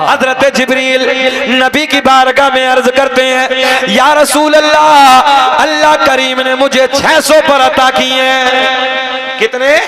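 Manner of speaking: rhythmic chanted lineage, held at full preaching force; preaching recitation. Acted. Preacher reciting the lineage to the gathering, full preaching. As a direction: intone each name to the crowd like a sermon. Hadith with Jibreel's words.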